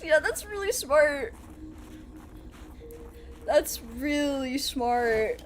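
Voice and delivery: very slow, dragged-out deadpan sarcasm; slow mock admiration; sarcastic praise. Sarcastic praise of own mistake.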